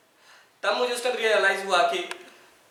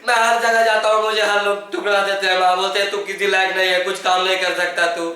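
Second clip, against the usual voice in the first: loud, anguished pleading to a lost mother; extreme grief; 2 semitones higher, 4 dB louder than usual. Acted. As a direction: beg her to come back at full emotional force. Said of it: "emotion बढ़ा दो, full extreme".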